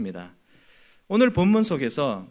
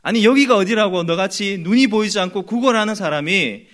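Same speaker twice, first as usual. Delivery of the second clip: raised, indignant mock rebuke; hushing someone with acted outrage; acted scolding; 3 semitones higher, 5 dB louder than usual. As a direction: scold a beggar into silence, building louder. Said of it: "이런 말투로".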